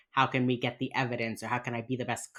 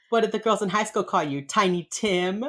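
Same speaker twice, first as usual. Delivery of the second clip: high, fast jeering question; voicing Gideon taunting the killer about school; mocking taunt; 6 semitones higher, 4 dB louder than usual. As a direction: rub his nose in it, mockingly. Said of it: "Gideon is like".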